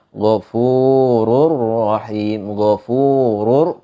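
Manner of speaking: Ghafurur Rahim with heavy, thick r. Shown as a demonstration. Teacher contrasting thick reading, heavy ro in Ghafurur Rahim. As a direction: draw out Ghafurur Rahim, r sounded full and thick. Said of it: "ro-nya itu dibaca tebal".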